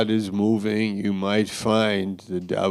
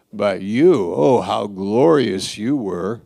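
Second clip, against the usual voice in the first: mocking; 5 dB louder than usual. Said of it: "mocking him".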